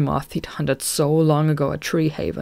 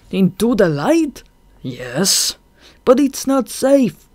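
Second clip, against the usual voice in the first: frightened protest; 7 semitones higher, 6 dB louder, slower than usual. Acted. Throb fears going out.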